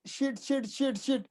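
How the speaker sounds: soft repeated muttering under the breath; muttered relief. Real, not acted. Teacher muttering to himself as the sheet matches, soft. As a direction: mutter it to yourself, half amazed.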